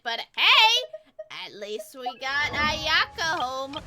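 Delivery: bursting with delight, loud and high; excited cheer. Real, not acted. Streamer showing chat her new character, thrilled and loud. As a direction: gush over the new character. Excited about getting Ayaka.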